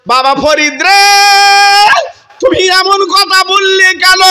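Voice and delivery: high reproachful call; woman's reproach. Acted. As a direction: call him out, voice lifting high. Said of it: "মেয়েটা ডেকে বলছে".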